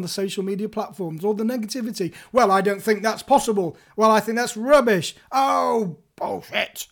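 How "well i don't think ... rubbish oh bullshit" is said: dismissive. Retold or imitated. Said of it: "put people on the back foot".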